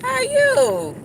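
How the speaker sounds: high, loud greeting; high call-out. Real, not acted. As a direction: call out to a friend. Calling out to friend.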